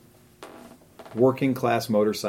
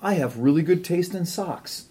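smug voice; 7 semitones higher, slower than usual. Retold or imitated. Quoting own smug thought.

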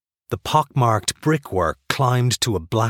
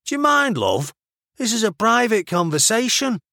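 high-pitched Mancunian objection; affronted Manchester-accented rebuke; indignant; 12 semitones higher than usual. A narrator's reading. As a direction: tell off an eavesdropper. Ox tells off eavesdropping Hannah.

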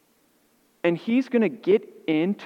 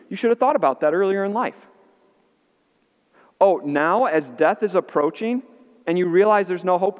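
indignant retort. Pretend. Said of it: "how I would have responded".

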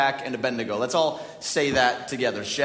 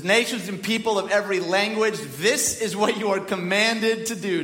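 higher-pitched, lightly acted royal proclamation; proclaimed decree; 5 semitones higher than usual. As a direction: read it out as a king's command. Reads out the king's decree.

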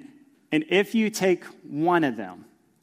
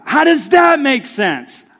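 put-on higher, louder whiny child complaining; whiny kid; 9 semitones higher, 9 dB louder than usual. Pastor imitating his kids bickering in the car, whiny and loud. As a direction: mimic a kid griping about the front seat.

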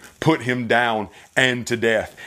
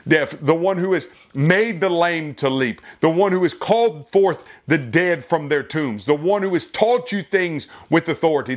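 Pilate's rising plea; 3 semitones higher than usual. Acted. Preacher voices Pilate's plea.

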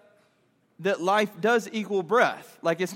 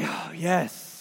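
low, softer sigh of relief; relieved; 5 semitones lower, 5 dB quieter than usual. Acted. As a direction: savour the first breath back. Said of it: "that breath just feels so good".

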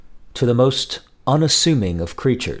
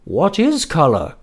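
Owl; 7 semitones higher, 3 dB louder than usual. Acted. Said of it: "said Owl".

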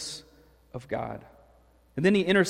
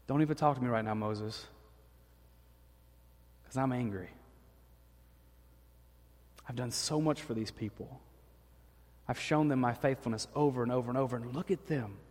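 angry God; 3 semitones lower, 6 dB quieter than usual. Retold or imitated. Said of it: "where God says".

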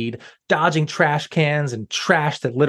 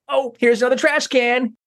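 yell; 9 semitones higher than usual. Acted. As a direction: shout it out gleefully. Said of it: "he yelled".

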